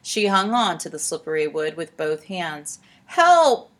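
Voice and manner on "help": high, loud cry for help; yell. A narrator's reading. Olive clinging to the boat, yelling for help. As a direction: yell out in alarm, pitched way up. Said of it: "she yelled".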